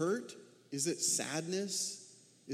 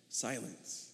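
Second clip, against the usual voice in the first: breathy, much softer single word; hushed; 6 semitones lower, 8 dB quieter than usual. Acted. Pastor answering for silent Jonah, hushed. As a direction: let the word drop into silence.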